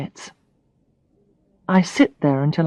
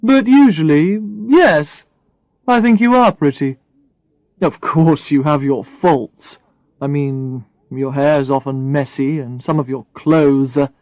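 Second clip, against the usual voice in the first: Brad; 3 semitones lower than usual. Acted. Brad voiced by narrator.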